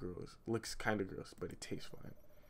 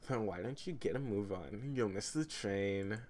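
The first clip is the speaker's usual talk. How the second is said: a touch of a copied YouTuber voice for the sister; lightly voiced YouTuber voice for Jazz. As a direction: read Jazz like that YouTuber, only barely changed. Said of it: "I'm gonna use that voice for Jazz".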